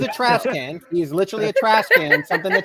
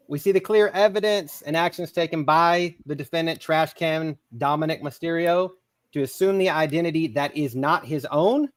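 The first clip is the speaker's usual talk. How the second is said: mock courtroom closing argument; formal speech; 3 semitones lower than usual. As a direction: address the jury like a lawyer. Mock closing statement to jury.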